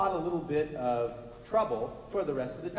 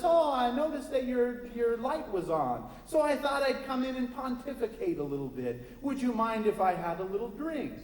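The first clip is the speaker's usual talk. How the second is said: higher, lofty preacher voice; pompous preacher; 8 semitones higher than usual. Acted. Preacher inviting himself in, pompous and high. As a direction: pontificate in a raised, grand tone.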